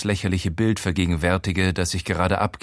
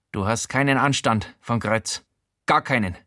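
a fussy, nosy voice pitched up; Showalter's voice. Acted.

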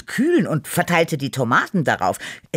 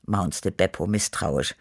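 plain reading voice

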